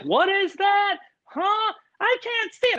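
high squeaky confused voices; mock confused parents. Mocking the Zoom parents who can't see, in a squeaky voice. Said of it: "And they're like".

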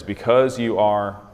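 slow phrase, weight on "because"; stress on BECAUSE. Shown as a demonstration. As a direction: lean into "because" as the key word. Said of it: "what is the emphasis".

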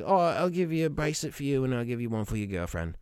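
lightly imitated British girl; cute British accent. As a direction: do a cute girl's British accent, half-sincere. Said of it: "it was, like, the cutest thing".

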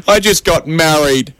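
old man pretending to cry; mock crying. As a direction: whimper it out slowly, hammed-up. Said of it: "The old man crying says".

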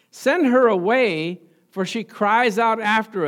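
slow, insistent plea to send her away; disciples urging. Acted. Disciples pleading with Jesus to send the woman away, insistent. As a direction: press the demand, slow and firm. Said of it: "So he urged them, saying".

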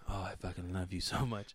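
soft, low mock-tender confession; making up tenderly. Partner making up after a fight, soft and tender. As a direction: melt into a quiet make-up line.

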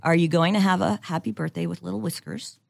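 put-on cooing baby talk to a cat. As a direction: talk to it like a kitten. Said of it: "I'm doing the baby talk voice".

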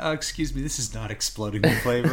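snooty complaint broken by laughter; mock snooty diner. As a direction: imitate a fussy customer, laughing. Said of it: "Do you ever get that?".

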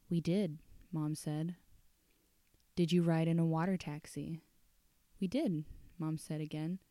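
soft, measured storytelling voice; story narration. A narrator's reading. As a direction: read it like a quiet dark tale at night. Reads the story aloud.

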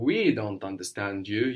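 strong stress on "We" at the start; emphatic WE. Shown as a demonstration. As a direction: lean hard on "We". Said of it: "Using the word for we".

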